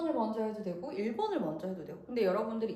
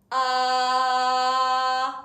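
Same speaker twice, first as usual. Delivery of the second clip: loud, clear sustained ah; clear strong ah; 10 dB louder than usual. Shown as a demonstration. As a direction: hold a firm, clear vowel. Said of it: "마찰을 많이 시킬수록 ... 명확한 소리가 나겠죠".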